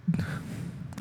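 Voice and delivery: quiet, breathy laugh; real chuckle. Real, not acted. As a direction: break off into a soft laugh. Breaks off mid-admission, laughing.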